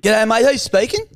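a hint of a cheery ocker tradie on the phone; Stephen's voice. Prank caller greeting the business partner in a mild ocker voice. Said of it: "it's Stephen's voice".

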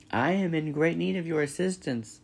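cheerful robot hailing someone over water; friendly booming robot. A narrator's reading. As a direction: call out a friendly hello. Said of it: "the robot's friendly voice boomed".

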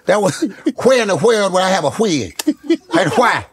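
lightly voiced Steve Harvey rant; mock-indignant Steve Harvey; a hint of Steve Harvey fussing over the wig; Steve Harvey impression.

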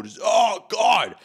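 hammed-up climax yell; mock moan shout. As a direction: overdo an ecstatic cry.

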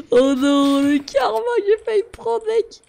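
alarmed outburst. Real, not acted. Gamer nearly punished, alarmed outburst. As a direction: blurt out the close call. Nearly got a karma penalty.

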